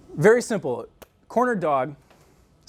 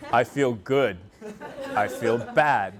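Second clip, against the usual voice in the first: imitating men; 5 semitones lower, much slower than usual. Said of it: "the two emotions I get from men".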